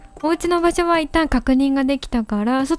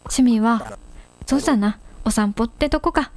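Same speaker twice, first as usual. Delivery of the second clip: lightly lowered tough-guy cat; スパーク; 3 semitones lower than usual. Acted. Reads Spark dialogue in gruff voice. (軽く低めのチンピラ口調)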